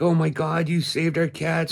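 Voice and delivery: high-pitched mimicked thanks; imitated overwhelmed gratitude. Neighbors thanking the man who fed their cat, imitated overwhelmed gratitude. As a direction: gush it high, imitating emotional owners. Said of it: "they started crying".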